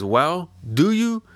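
a bandit boss leaning on a villager, slow and threatening; menacing thug. Acted. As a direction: lean on him, slow and menacing.

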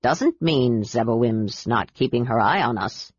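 low, serious warning from the ship's captain; captain gravely warning the knights of the sea goddess. Acted. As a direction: speak gravely, like a superstitious old captain. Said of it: "said the captain gravely".

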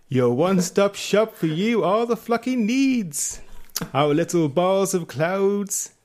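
lightly hammed-up advert read; pitchman voice. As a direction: sell the sheep like a cheesy TV salesman. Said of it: "Can I do it in an accent?".

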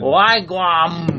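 bad Jamaican accent. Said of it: "you're starting to sound like Japanese".

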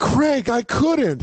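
hammed-up blushing refusal; coy mock protest. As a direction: play the flattered girlfriend, hammed-up. Mocking April's coy refusal.

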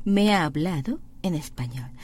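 very slow, word by word; slow demo. Shown as a demonstration. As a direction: spell it out slowly for learners.

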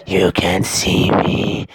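menacing spider taunting slowly; a creepy spider gloating over revenge. Acted. Spider taunts, ends whispering.

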